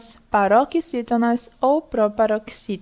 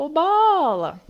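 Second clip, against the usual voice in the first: bola called out higher, with a long bo; long stressed BO; 5 semitones higher, slower than usual. Shown as a demonstration. Teacher repeating the call to show longer bo, high and stretched. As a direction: hold the bo of bola, then drop on la. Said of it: "a gente falou por mais tempo".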